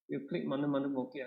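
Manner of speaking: English sliding into Malay mid-sentence; easy Malay-English mix, quick; switching between two languages. Real, not acted. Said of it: "I'm going to speak in mixing English and Malay lah".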